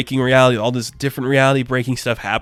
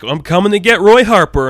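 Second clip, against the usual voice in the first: lightly hammed-up villain, louder and higher; villain's announcement; 5 semitones higher, 6 dB louder than usual. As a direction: burst in with a mock-menacing announcement. Armored villain bursts in, announcing himself.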